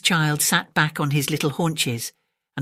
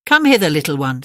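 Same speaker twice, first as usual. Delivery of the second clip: coaxing crocodile; 6 dB louder than usual. Acted. Crocodile coaxes.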